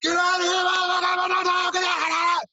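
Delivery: high, loud yell; high loud mock street scream; retold screaming. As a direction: scream it at someone fleeing. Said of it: "people started screaming".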